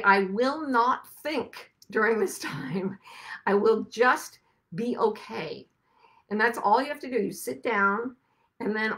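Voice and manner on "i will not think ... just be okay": slow, steady and calm; calm self-promise. Shown as a demonstration. Teaching listeners a calm slow vow. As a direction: say it slowly to yourself like a vow.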